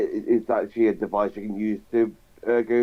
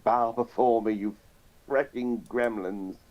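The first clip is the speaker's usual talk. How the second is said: dark lord voice. Pretend. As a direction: play a hammy tyrant looking down. Commanding gremlins from above.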